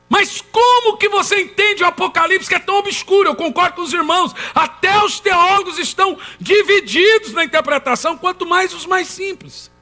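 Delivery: high, impassioned pulpit questioning; emphatic preaching. Acted. Preacher raising congregation's doubt about Apocalypse, emphatic preaching. Preacher voices the objection forcefully.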